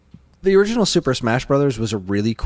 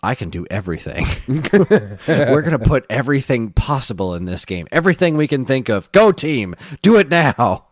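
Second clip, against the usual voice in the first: excited Sakurai impression; 4 semitones higher, 4 dB louder than usual. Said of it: "He's just like".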